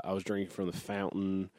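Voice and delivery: "fountain" with the t swallowed, said softly; dropped consonants. Shown as a demonstration. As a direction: drop the t in "fountain". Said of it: "there's just a tendency to drop, uh, consonants".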